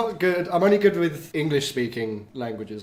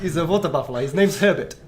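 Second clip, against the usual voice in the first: put-on South African accent. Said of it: "That was very good".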